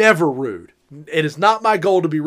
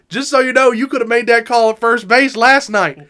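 higher, louder jeer at the umpire; heckling call; 5 semitones higher, 4 dB louder than usual. Retold or imitated. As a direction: call it out so the ump hears.

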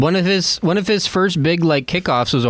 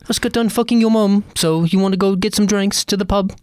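posh Brit voice; 3 semitones higher than usual. Retold or imitated. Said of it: "He's British, that's why".

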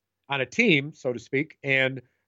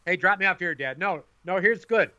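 mock whiny teen; 8 semitones higher than usual. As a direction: play the embarrassed kid who builds from pleading to a screamed demand. Mocking a teen in car.

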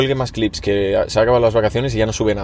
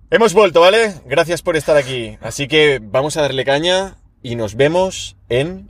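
hyped host voice; 3 semitones higher than usual. Acted. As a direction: pump up the audience like a host. Host outro. (voz de presentador animado, aguda y fuerte)

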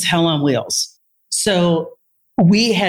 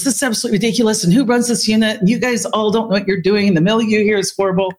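mock rant, higher and fast; retold yelling; 4 semitones higher, faster than usual. Doctor ranting at the therapist about the unit, retold yelling. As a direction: imitate an exasperated doctor ranting in a raised pitch. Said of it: "So he was yelling at me".

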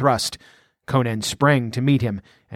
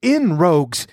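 higher, pushed yell; 6 semitones higher than usual. A narrator's reading. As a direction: yell the rogues forward. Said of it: "yelled the outlaw".

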